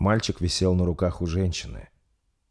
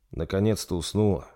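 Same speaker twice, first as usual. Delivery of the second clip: tired. Acted. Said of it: "устало произнёс принц".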